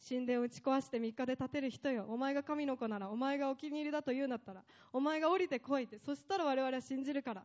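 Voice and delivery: mock him lightly as the elders did; scornful taunting. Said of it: "散々あざけったんです".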